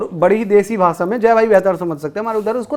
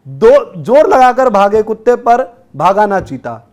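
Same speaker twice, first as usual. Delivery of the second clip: poem recital; 3 semitones higher, 4 dB louder than usual. Shown as a demonstration. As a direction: recite the verse in a raised, punchy voice. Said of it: "मैं सुनाता हूँ". (जोश से कविता पाठ)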